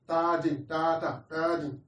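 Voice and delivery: imitated baby babble. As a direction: babble lightly like a baby making noise. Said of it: "a baby that is just making noise".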